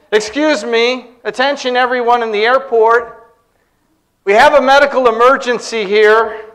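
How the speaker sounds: imitating an airport announcer; PA announcement. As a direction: address the whole terminal, calm and official. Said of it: "took the microphone for the P A".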